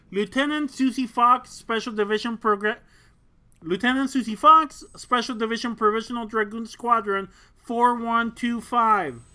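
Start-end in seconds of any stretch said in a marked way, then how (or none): 3.6-9.2 louder, crisp military radio call; formal radio call. Acted. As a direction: announce it like a pilot on comms.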